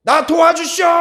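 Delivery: shouting for help. Retold or imitated. A blind man begging passersby, loud plea. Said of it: "이렇게 하지 않고".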